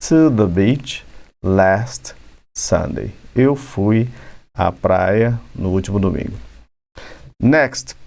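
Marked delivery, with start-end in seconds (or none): 0.1-3.1 slowed right down, each word laid out; slow demo. Shown as a demonstration. Teacher slows down to model the sentence for students. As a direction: spell it out slowly for the students. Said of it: "que está aqui".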